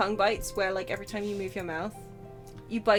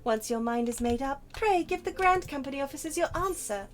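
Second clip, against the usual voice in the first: NPC voice; 5 semitones higher than usual. Acted. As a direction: read it as a stately quest giver. Reads NPC dialogue aloud.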